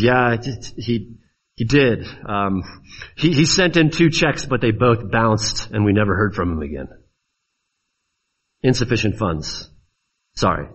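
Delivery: low, hesitant voice of a reluctant banker; awkward banker. Acted. Banker telling a customer the checks bounced, awkwardly apologetic. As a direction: break bad news haltingly, trailing down to an apology. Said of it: "And the banker says".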